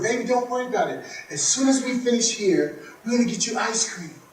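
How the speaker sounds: put-on calm the crying kid; soothing parent. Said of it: "He said".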